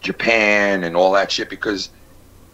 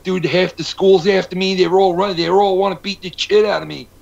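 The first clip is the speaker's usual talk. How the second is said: higher, urgent mock panic; lightly voiced kid begging for help; panicked friend; 7 semitones higher, 3 dB louder than usual. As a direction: friend pleading while being chased. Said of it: "And he'd be like".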